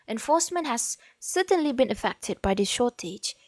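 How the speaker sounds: reading aloud in accented English; formal read-out with an acquired English accent. Real, not acted. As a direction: let an accent creep into the English as you read. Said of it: "kenapa akak punya English ada accent".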